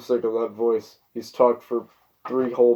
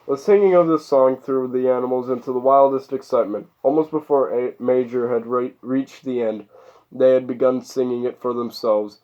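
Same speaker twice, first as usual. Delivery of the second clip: measured read-aloud narration; story narration. A narrator's reading.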